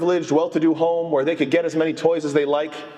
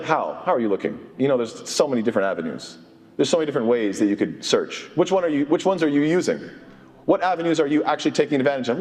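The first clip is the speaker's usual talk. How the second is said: pointed questioning; 3 semitones lower, faster than usual. Retold or imitated. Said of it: "And you're like".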